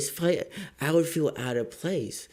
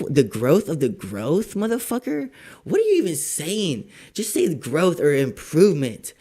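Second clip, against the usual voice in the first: mocking retort; 3 semitones higher, 4 dB louder than usual. Mocking the scammer's words.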